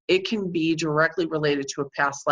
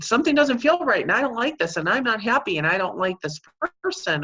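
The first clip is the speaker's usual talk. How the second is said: lightly voiced upset inner baby, higher pitched; hint of a protesting little one, pitched up; 6 semitones higher, faster than usual. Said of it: "your inner baby's jumping up and down saying".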